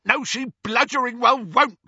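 bellowing. A narrator's reading. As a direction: roar back at her. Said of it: "bellowed Amycus".

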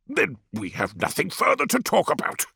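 high, thin elder's voice; old village elder. A narrator's reading. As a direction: voice the frail elder Tefra. Narrator voices elder Tefra.

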